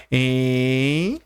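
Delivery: Enxaguou broken into syllables, very slow; split into syllables. Shown as a demonstration. Teacher showing students how to separate the word, very slow syllables. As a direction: spell out Enxaguou syllable by syllable, slowly. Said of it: "É assim, ó".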